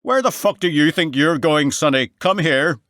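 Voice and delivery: loud, high Northern Irish bellow; Northern Irish sergeant yelling at a soldier. A narrator's reading. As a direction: roar it across the yard in thick Northern Irish. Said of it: "bellowed in a thick Northern Irish accent".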